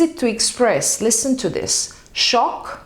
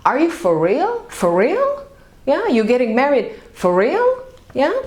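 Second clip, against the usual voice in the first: surprised; faster than usual. Shown as a demonstration. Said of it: "use it like a question".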